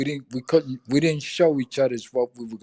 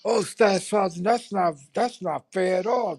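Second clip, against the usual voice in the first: higher, whiny protest to the sergeant; mock pleading soldiers; 6 semitones higher than usual. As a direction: play the cheeky privates begging. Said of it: "And they go".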